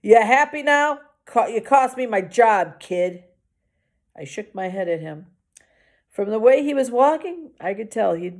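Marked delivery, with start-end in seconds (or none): 0.0-3.2 put-on drunk guard hollering at the kid; a mild holler, pitched up. Drunk security guard hollers at the kid, mildly raised. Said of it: "he hollered at me".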